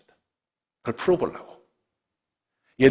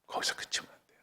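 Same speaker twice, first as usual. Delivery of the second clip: 거기서 그치면 안 돼요 whispered, all breath; 15 dB quieter, faster than usual. Real, not acted. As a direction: hush it to a whisper for weight. Whispered repeat. (거기서 속삭이듯 작게)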